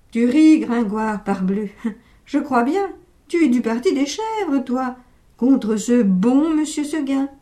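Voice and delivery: teasing. Acted. Narrator teasing listener Gringoire.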